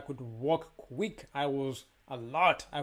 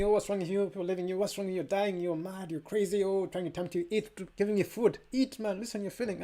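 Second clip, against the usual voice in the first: lightly voiced worried friends, a bit higher; mock pleading friends urging him to eat; imitating worried people; 4 semitones higher than usual. Friends begging the faster to eat, in a lightly higher mock-worried voice. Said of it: "telling me".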